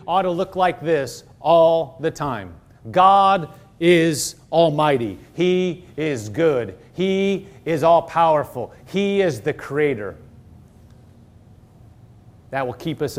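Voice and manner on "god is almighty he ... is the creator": slow, measured declaration of praise; reverent praise. Shown as a demonstration. Preacher shows how to praise the Almighty, slow and reverent. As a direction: declare it slowly, giving each phrase room. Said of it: "This is praising the Almighty".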